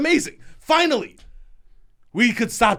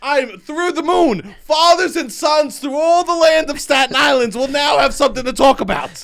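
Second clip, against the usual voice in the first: higher, louder, shouted speechifying; mock grand proclamation; 7 semitones higher, 5 dB louder than usual. Comic announcing to podcast host, mock grand shout. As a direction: proclaim it like a town crier.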